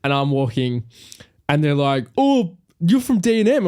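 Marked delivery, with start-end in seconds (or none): 2.2-3.7 high-pitched imitation of a fan recognising them; light, raised-pitch excited greeting; retold eager greeting. Passer-by greets podcast hosts he recognises, eager and high.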